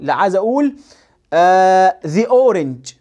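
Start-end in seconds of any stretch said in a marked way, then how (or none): 2.1-2.9 "the" as "thee" before "orange"; "thee" before a vowel. Shown as a demonstration. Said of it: "ذي لما يجي قبلها حرف فاول".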